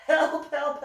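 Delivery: high, loud mock distress call; shouted calls for help. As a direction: call out for rescue, hammed up. Replaying her cries for help.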